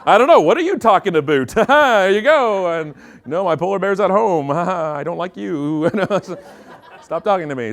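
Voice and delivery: overly polite Canadian. Acted. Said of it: "doing the Canadian thing for everybody".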